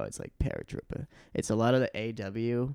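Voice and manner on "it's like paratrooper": paratrooper in a much lower Boston accent, r dropped. Shown as a demonstration. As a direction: drop the r in paratrooper, Boston style, low. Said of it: "I'm working on my Boston accent".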